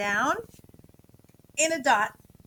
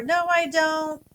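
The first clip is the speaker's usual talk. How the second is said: slow sample answer; 4 semitones higher, 5 dB louder, slower than usual. Shown as a demonstration. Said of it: "go ahead and tell me".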